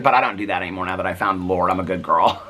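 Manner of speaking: mock her newfound piety, a touch sing-song; hint of a sanctimonious good girl; prim good girl. Mocking a newly religious inmate.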